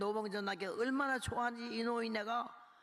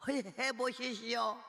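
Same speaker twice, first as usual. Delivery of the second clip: Jeolla dialect; 4 semitones higher, slower than usual. Retold or imitated. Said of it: "전라도 사투리로".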